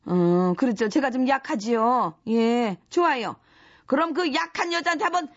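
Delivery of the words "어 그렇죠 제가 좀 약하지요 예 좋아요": slow mock-sweet agreement; sarcastic. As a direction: agree sweetly, menace underneath. Fake agreement before hitting.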